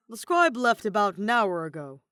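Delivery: booming tavern keeper voice; far too loud. Acted. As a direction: blurt it out much too loudly. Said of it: "he says far too loud".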